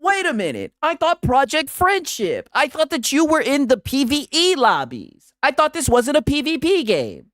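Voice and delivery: high-pitched, hammed-up disbelief; playful outraged bewilderment; mock indignation. Feigns shock at broken friendship.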